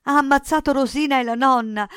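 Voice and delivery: high, loud, horrified outburst; terrified boy shouting; frantic cry. A narrator's reading. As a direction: cry out the terrible news in panic. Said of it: "gridò Cinto".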